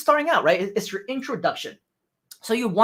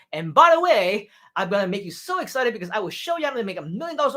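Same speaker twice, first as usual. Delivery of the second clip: mock scammer pitch; 3 semitones higher than usual. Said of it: "but don't say".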